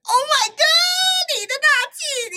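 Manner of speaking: high, loud cry of disbelief; Oh my god thrown up high and loud; shocked outburst. Real, not acted. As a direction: gasp it out in real shock. Reacting to the ticket money.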